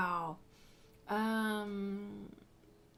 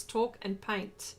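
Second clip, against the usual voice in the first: slow joke; 3 semitones lower, much slower than usual. Real, not acted. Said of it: "Who says women can't do two things at once?".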